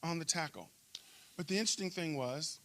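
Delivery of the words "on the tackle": very slow, high drawn-out chant of the name; crowd yell. Retold or imitated. Fans yelling his name after every tackle, drawn out high. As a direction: stretch the name like fans in the stands. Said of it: "they would yell".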